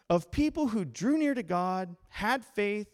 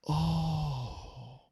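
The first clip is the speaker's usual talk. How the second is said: acted weary groan, trailing down; frustrated sigh; 3 semitones lower, 3 dB quieter than usual. Pastor imitating a frustrated Bible reader, frustrated sigh. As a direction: let out a low, deflated "oh". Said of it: "get frustrated with yourself".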